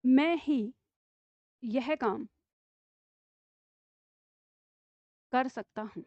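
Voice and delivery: slow, with long pauses between words; slow dictation. Shown as a demonstration. Teacher dictating the sentence slowly to pupils. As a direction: dictate word by word for the class to write. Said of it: "दूसरा वाक्य".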